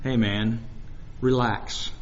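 low, soft, laid-back voice; very relaxed. Retold or imitated. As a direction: imitate an unruffled expert, quiet and low. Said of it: "in a very relaxed voice".

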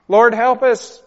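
high, loud, crying "Lord, help us"; loud weeping "Lord, help us"; tearful cry. Real, not acted. Crying prayer.

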